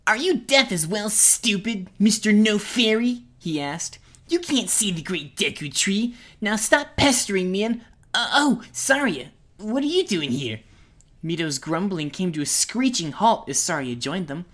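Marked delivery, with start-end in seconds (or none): 0.1-10.6 taunting. Acted. Mito taunting Link.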